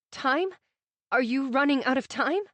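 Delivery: frightened rising question; fearful. Acted.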